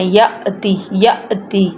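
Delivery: "یأتی" with a sudden catch after "ya"; jolt on hamza. Shown as a demonstration. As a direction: stop sharply on the hamza in "یأتی", then "ti". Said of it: "رک کے جھٹکا لگاتے ہیں". ("یأتی" میں ہمزہ پر جھٹکا)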